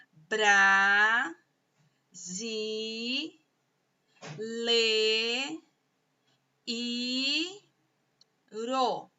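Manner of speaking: "bra, zi, le, i, ro" each held long, pauses between; syllable by syllable. Shown as a demonstration. Teacher dividing brasileiro for pupils, slow syllable by syllable. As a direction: sound out "brasileiro" in stretched, separate syllables. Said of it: "sílaba por sílaba".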